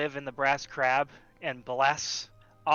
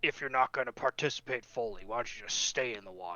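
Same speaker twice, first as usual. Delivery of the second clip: put-on soft, drunken grumble muttered under the breath; 3 semitones lower, 6 dB quieter than usual. A game master voices Lord Baccharis, drinking heavily at the festival, to Kosh: grumbling. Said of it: "he just grumbles".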